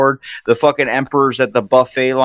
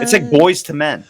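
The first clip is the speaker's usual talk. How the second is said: excited call; 5 semitones higher than usual. Real, not acted. Guest shouting the band name out. Naming the band mid-song.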